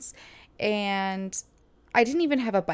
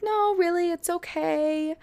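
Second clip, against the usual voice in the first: polite refusal; 9 semitones higher than usual. Retold or imitated. Retold polite refusal of help.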